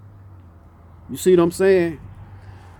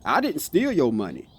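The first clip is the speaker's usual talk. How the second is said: I leaned on, then falling, softer; stress on I; 4 dB quieter than usual. Shown as a demonstration. Repeating the demo for viewers, stress on I. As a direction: put weight on I, let the rest drop quietly. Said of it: "the way I said that".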